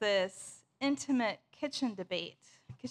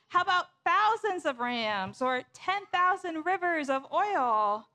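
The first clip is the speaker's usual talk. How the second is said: higher-pitched, acted desperate bargaining; desperation; 5 semitones higher, 3 dB louder than usual. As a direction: plead as if raising the offer in desperation. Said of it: "hear the desperation in the people's voices".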